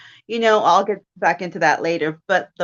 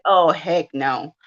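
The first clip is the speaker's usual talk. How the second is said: retold annoyed refusal; 3 semitones lower, slower than usual.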